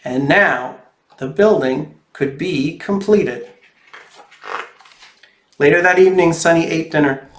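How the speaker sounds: put-on lively storybook reading for kids; reading to children. A narrator's reading. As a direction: read it like a picture book to little ones. Reads picture book to children.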